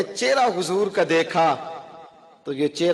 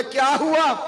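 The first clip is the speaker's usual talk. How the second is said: tender question; 10 semitones higher, slower than usual. Acted. Prophet asks the weeping man.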